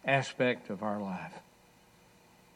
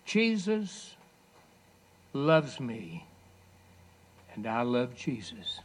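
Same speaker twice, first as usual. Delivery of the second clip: put-on strained slurred boy; slower than usual. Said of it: "in his strained, slurred manner".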